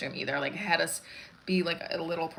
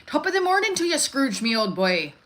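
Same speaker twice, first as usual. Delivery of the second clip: hammy stage Irish accent, starting high and loud; cheery leprechaun-style Irish greeting; 7 semitones higher, 4 dB louder than usual. Shown as a demonstration. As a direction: put on a lilting comic Irish accent. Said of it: "I did do an Irish accent".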